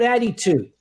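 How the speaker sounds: "attitude" with the middle i as a long "ee". Shown as a demonstration. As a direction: say "attitude" as "at-tee-tude". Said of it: "That I in the middle is enunciated and pronounced as a long E".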